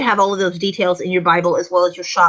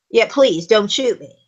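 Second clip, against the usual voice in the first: calm, dismissive plea; brave, unafraid. Shown as a demonstration. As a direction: say it like they're not scared. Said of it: "maybe they're brave".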